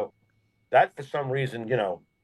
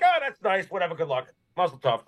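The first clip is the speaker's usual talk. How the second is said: mock indifference; 3 semitones higher than usual. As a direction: imitate someone who couldn't care less. Mimicking indifferent reaction to the wedding.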